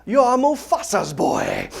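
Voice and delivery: a hint of the old baboon; lightly voiced Rafiki. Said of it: "And he goes".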